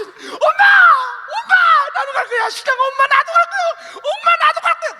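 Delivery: high, loud calling out; shouting child, half laughing; child shouting after mother. Acted. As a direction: call after her down the street. Child chasing mother to market.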